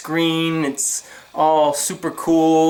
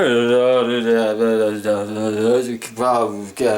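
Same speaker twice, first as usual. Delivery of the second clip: low, droning gibberish; unintelligible phone agent; 7 semitones lower, much slower than usual. Retold or imitated. Agent answers the order number, low droning gibberish. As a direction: mumble nonsense in a low monotone. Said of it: "and the person went".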